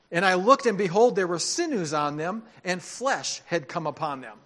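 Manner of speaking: emphatic, measured scripture reading. A narrator's reading. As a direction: proclaim the passage, pausing between phrases. Reads scripture aloud with force.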